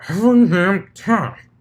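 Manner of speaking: loud, high exasperated outburst. Acted. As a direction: blurt it out fed up. Blitz angry at stuck slice.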